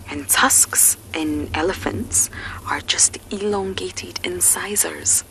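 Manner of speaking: hushed safari whisper. Real, not acted. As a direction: whisper so the elephants stay calm. Whispering near the elephants.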